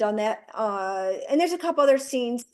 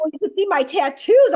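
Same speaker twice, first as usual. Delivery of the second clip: laughing imitation; 6 semitones higher, 7 dB louder than usual. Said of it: "he's like".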